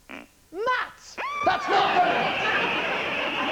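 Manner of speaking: high squeaky puppet shriek; hammed-up high-pitched protest; mock outrage.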